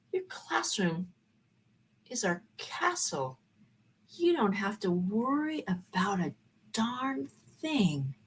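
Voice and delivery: soft, slow reassurance; calm her down gently and slowly; reassuring. Retold or imitated. College officials reassuring the teacher, soft and slow.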